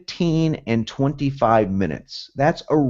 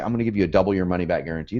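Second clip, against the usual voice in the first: quick quote; 3 semitones lower, 5 dB quieter, faster than usual. Retold or imitated. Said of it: "I know guys that say".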